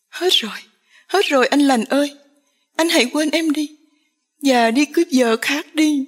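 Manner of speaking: high, loud despairing cry. A narrator's reading. Diệu runs off crying out to Lành, loud. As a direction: cry it out while running away. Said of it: "vừa chạy đi vừa la to".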